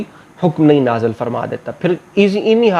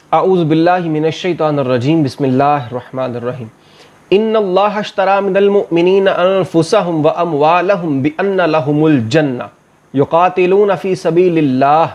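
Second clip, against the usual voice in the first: Quran recitation. Acted. Teacher recites a verse before translating it, measured recitation.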